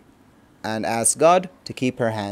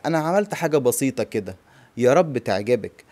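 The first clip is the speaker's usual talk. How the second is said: fast repeat of the phrase; much faster than usual. Shown as a demonstration. Teacher repeating the hostess's words quickly. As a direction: rattle it off quickly. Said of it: "I did something simple like this".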